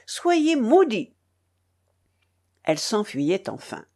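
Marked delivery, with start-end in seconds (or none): 0.1-1.1 high, slow, drawn-out curse; angry curse. A narrator's reading. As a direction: hurl a parting curse. Her parting curse.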